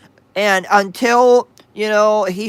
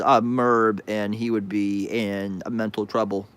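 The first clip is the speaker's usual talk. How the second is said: low and quiet; 10 semitones lower, 6 dB quieter than usual. Real, not acted. Low boastful reply.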